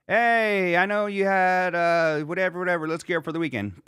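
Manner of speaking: high, hyped show plug, easing down; upbeat promo. Acted. Voicing a scheduled weekend post, upbeat promo. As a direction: pitch it like a mock promo.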